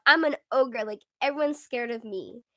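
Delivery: loud mock-ogre boast; big, loud playful declaration; self-styled huge ogre. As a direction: announce yourself loudly as a scary monster. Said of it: "I feel like I'm this huge ogre".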